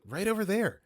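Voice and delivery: put-on high eager child voice; little kid voice. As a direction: pipe up like a small boy. Child pointing out his dad.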